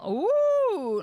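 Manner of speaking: high loud delighted ooh; excited ooh. Real, not acted. Player spotting a spinning wheel, excited high ooh. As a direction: coo at a great find.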